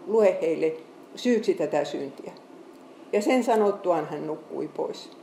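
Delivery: steady Bible reading, slowing at the close; scripture reading. Acted. Preacher reading Stephen's death to the congregation, measured reading. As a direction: lay the verses out for the congregation.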